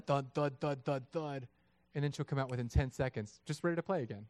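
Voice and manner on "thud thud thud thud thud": imitated footsteps. Imitates daughter's heavy running footsteps.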